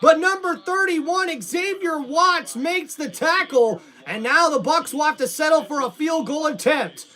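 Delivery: measured commentator breakdown, stressing the name; play-by-play recap. Acted. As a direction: recap the tackle for the viewers. Announcer recaps the tackle.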